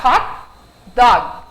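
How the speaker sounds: "hot" and "dog" with hard stops on T and G, no added vowel; clipped English ending. Shown as a demonstration. Teacher showing how English "hot dog" should end. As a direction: stop cleanly on the T and the G. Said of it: "parar no T e parar no G".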